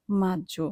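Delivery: মাজ্জো with a doubled j sound, no hard g; soft G in মাজ্জো. Shown as a demonstration. Teacher models Italian May, মাজ্জো with a j sound. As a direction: say মাজ্জো with gg as a long j. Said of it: "এখানে জি ই অ এর উচ্চারণ জয়ের মতো হয়".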